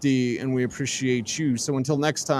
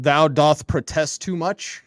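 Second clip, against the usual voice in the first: mock Shakespearean; slower than usual. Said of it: "what is it?".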